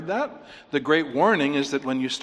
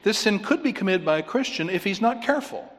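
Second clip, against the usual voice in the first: mocking quote; 6 semitones higher than usual. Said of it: "that's a quotation".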